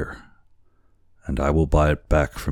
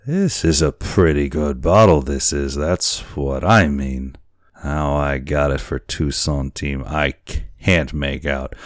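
put-on a touch of drunken gloating; drunken sailor; 4 dB louder than usual. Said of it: "how drunken it appeared".

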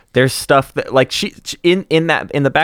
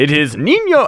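luchador announcer; 4 semitones higher than usual. Retold or imitated. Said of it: "a sort of character voice of a luchador announcer".

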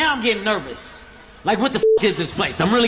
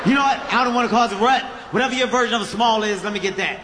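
exasperated giving in; faster than usual. Retold or imitated. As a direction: throw up your hands and give in.

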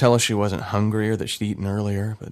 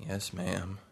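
meek reply; 12 dB quieter than usual. Acted. Scolded boy answering.

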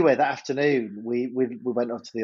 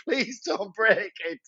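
pleading glare; 5 semitones higher, slower than usual. Retold or imitated. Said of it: "glaring at them as if to".

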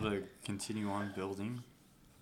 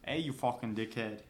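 put-on Australian jibe; Australian accent. Shown as a demonstration. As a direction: demonstrate an Australian accent on an insult. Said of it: "in Australian fucking accent".

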